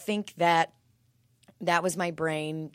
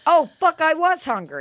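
mock dismay; 9 semitones higher, 9 dB louder than usual. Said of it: "And you were like".

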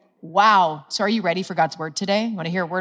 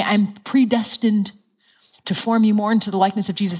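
gentle loving. Shown as a demonstration. Holy Spirit gently reassuring a struggling believer, tenderly. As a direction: speak like a loving father to his child. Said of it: "He leads us like this".

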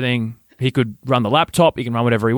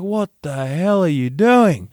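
high, drawn-out imitation of an angry mother; outraged mum; 6 semitones higher, slower than usual. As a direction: stretch out the scolding in mock outrage. Retold furious mum confronting brother.

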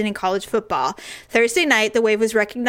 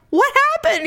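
mock alarm. Retelling reaction to Daryl.

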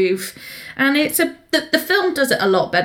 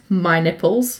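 laughing punchline; 4 semitones lower, slower than usual. Real, not acted. Mocking the novel's line.

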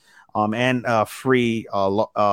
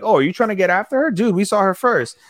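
mock challenge; 7 semitones higher than usual. Voicing beach guys hitting on Akari.

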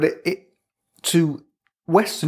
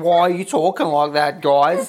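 put-on Australian accent.

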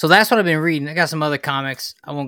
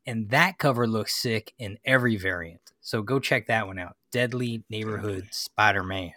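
hammed-up Southern twang; put-on Southern accent; 4 semitones lower, 3 dB quieter than usual. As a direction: carry on in a pretend Southern accent. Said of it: "not like his accent".

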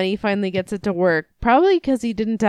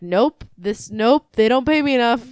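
scared refusal; 4 semitones higher, 4 dB louder than usual. Retold or imitated. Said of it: "the fucking cop just looks in and is like".

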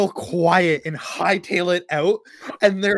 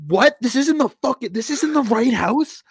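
disbelieving outrage; 9 semitones higher, 5 dB louder than usual. Pretend. Friend on phone, incredulous yelling.

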